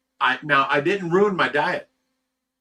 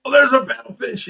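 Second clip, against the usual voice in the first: high, louder thrilled cry; excited; 10 semitones higher, 7 dB louder than usual. Retold or imitated. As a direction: call out the fish with delight. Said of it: "you're so excited".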